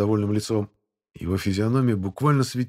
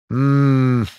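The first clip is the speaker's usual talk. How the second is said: drawn-out hum; 4 semitones higher, 7 dB louder than usual. A narrator's reading. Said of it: "протянул Шипко".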